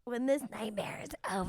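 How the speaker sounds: whispered aside. Acted. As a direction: whisper it darkly under breath. Whispered aside after toast.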